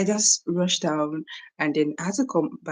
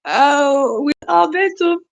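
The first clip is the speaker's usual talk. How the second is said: excited high exclaim; 10 semitones higher, 6 dB louder, slower than usual. Real, not acted. Reacting to viewer's comment.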